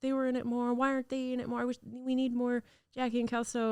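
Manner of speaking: high, wistful imitation of fans; complaining reviewers. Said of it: "some comments or reviews being like".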